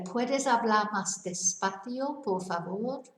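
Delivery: Puedes hablar más despacio, por favor said slowly, rising at the end; careful polite Spanish request; slow Spanish demo. Shown as a demonstration. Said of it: "another thing you could say is".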